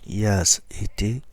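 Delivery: loud run of seasons for students; loud recital. Shown as a demonstration. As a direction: call out each season clearly. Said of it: "Les temps".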